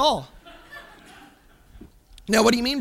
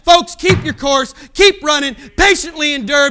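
preaching shout; 5 dB louder than usual. Real, not acted. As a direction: spell out each command to the congregation. Closing exhortation.

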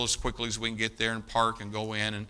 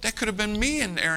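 much higher, louder anguished cry; pained, pitched-up despair; distraught; 10 semitones higher, 4 dB louder than usual. Retold or imitated. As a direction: voice the friend's shock in the hallway. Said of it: "he's just distraught".

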